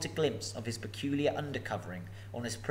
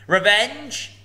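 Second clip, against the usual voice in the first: high, loud scornful snort of a word; snorting dragon; 10 semitones higher, 11 dB louder than usual. Acted. Dragon scoffing at Bilbo, loud snort. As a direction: spit it out in contempt. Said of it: "he snorted".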